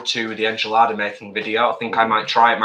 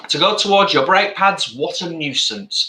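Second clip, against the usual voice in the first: talking through a mouthful of food; mouth full; 3 semitones higher than usual. Real, not acted. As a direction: speak around a bite of food. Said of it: "talk with my mouth full".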